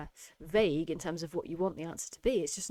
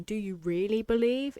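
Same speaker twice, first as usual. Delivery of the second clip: "believe" rising in disbelief; incredulous question; 3 semitones higher, 4 dB louder than usual. Shown as a demonstration. Teacher showing the tone of disbelief. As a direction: make belief sound silly. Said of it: "by the tone I've used in saying".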